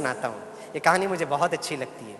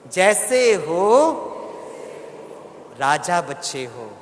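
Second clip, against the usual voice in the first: बहुत प्यार से; much slower than usual. Shown as a demonstration. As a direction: stretch it out, then land tenderly. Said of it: "बहुत प्यार से आप बोलिए". (प्यार से खींचते हुए, अंत में कोमल)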